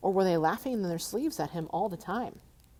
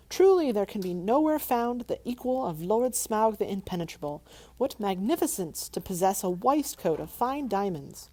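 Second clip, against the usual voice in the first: mock flattery; 5 semitones higher, 4 dB louder than usual. Bilbo flattering dragon.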